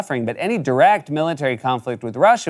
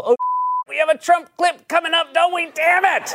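mock dismay; 14 semitones higher than usual. Real, not acted. Dread at upcoming Trump clip.

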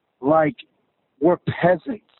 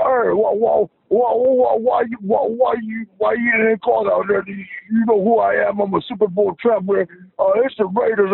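higher, indignant mock complaint; mock Chief Walrus; 4 semitones higher than usual. Caller mocking the Chiefs coach to the hosts, in a higher mock-indignant voice. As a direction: lampoon the coach griping at the refs. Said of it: "He's like".

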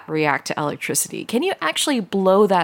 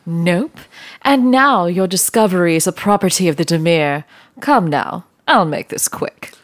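cold villain menace; 3 dB louder than usual. Acted. Villain closes in.

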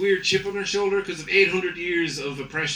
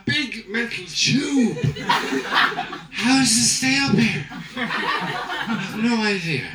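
loose, laughing cabin announcement; a tipsy captain rambling to passengers; lightly voiced drunk pilot; 2 semitones higher than usual.

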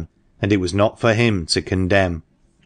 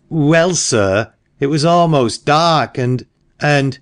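put-on hesitant frightened boy; 7 semitones higher, 3 dB louder, slower than usual. A narrator's reading. Frightened boy answers headmaster.

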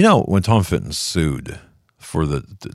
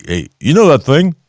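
high, vague mock Biden voice; Joe Biden impression; 10 semitones higher, 8 dB louder than usual. Host lampooning Biden on air, high put-on voice. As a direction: ask for it like you forgot the word. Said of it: "that's Joe Biden".

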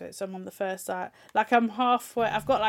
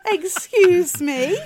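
high, slow, loud disbelief; shocked; 10 semitones higher, 13 dB louder, much slower than usual. Real, not acted. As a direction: stretch it out in shock. Shocked at the fox joke.

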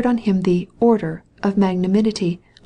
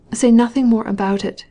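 agitated; 3 semitones higher than usual. Acted. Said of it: "replied Anna's agitated voice".

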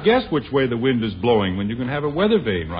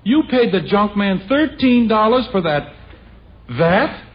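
higher-pitched indignant disbelief; incredulous outburst; 7 semitones higher, 3 dB louder, slower than usual. Acted. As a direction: balk loudly at the price. Husband shocked at lamp's price.

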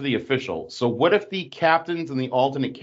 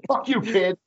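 mock voicing; 10 semitones higher than usual. Voicing the kicking man.

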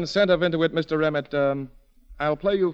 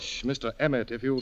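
soft shushing plea; quiet him before others hear; hushed; 4 semitones lower, 7 dB quieter than usual. Acted. The cheat hushing Emmett at the restaurant table, hushed.

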